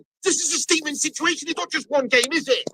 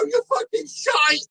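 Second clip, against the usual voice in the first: higher and slow, spitting each word; slow disgusted verdict; 6 semitones higher, slower than usual. Real, not acted. Fan condemning his goalkeeper, slow and disgusted. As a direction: spell out your contempt. Insulting the keeper.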